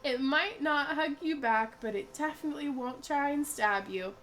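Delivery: high, slow sales pitch voice; infomercial pitch. Acted. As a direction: pitch it like a late-night ad.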